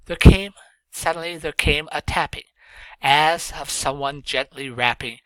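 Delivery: measured recital, rising at each line end; poem recitation. Shown as a demonstration. Teacher reading Poe aloud to students, recited. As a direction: read it as a poem to the class.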